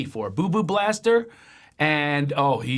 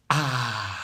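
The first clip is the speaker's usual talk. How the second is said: gasp; 3 semitones lower, 3 dB quieter than usual. Shown as a demonstration. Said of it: "end with a".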